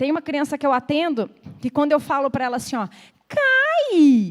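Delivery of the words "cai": exaggerated, drawn-out, sing-song intonation on cai. Showing how she says a word to a child she sees: drawn-out exaggerated 'cai'. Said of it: "eu sempre uso essa entonação bem exagerada".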